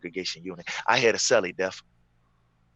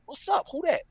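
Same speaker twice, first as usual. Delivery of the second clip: high calling voice; answering through vent. Retold or imitated. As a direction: call back through the vent.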